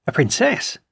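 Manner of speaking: rising, startled question; surprised cry. Acted. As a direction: voice lifts in disbelief. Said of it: "he cried".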